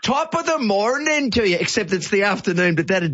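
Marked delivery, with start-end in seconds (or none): 0.0-1.6 high, sing-song echo of an Irish greeting; hammed-up Irish greeting. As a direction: greet them in playful mock-Irish, pitched right up. Echoes guest's Irish greeting.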